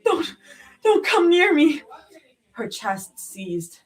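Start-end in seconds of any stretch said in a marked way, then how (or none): 0.0-1.8 high, cracking plea; cracking frightened plea. A narrator's reading. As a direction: break as you push him off. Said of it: "voice cracking immediately after".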